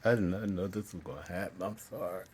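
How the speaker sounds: real, unsettled apology; emotional apology. Real, not acted. Speaker caught off guard by feeling, emotional apology. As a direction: apologize while regaining composure. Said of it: "I feel that feeling again".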